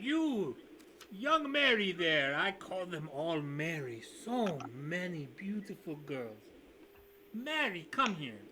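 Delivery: a lightly put-on, slow host voice; NPC host voice. Host beckoning his serving girls, lightly voiced. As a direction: call the girls over like a proud host.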